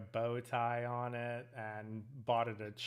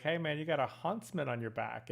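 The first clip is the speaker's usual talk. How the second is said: lightly imitated Australian accent, slightly higher; 4 semitones higher than usual. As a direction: retell it as an Australian guy calling over. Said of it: "in his Australian accent".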